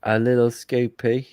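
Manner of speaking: lightly put-on English accent; John doing an Englishman. Teasing a friend about the little scooter, mock English accent. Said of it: "impression of John doing an impression of an Englishman".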